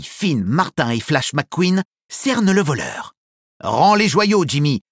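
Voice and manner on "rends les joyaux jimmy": firm, louder order; commanding. Acted. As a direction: order him to hand them over. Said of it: "lui ordonne Holly".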